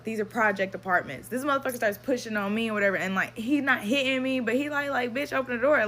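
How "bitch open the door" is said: higher, louder furious yell; angry shout. Retold or imitated. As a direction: bark the order at her. Ex forcing the door, retold.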